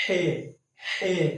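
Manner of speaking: ہے with the vowel stretched long; drawn-out vowel. Shown as a demonstration. Teacher showing how ہے is stretched for students. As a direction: pull the sound of ہے out. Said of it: "آواز تھوڑی سی کھینچ کے پڑھی جاتی ہے".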